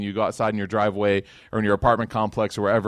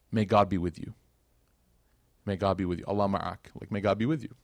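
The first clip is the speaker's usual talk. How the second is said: a touch of quiet sincerity, gently; sincere and clear; 4 semitones lower, 5 dB quieter than usual. Retold or imitated. Umar quietly blessing the departing woman, sincere. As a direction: bless her plainly and honestly. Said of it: "in a moment of just sincerity and clarity".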